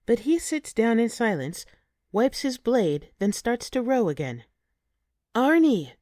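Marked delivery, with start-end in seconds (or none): 5.3-5.9 loud, sharp call of his name; an indignant shout. A narrator's reading. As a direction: call him out, outraged. Calling out in outrage.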